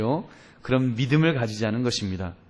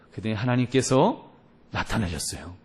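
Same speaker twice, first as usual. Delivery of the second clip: ordinary delivery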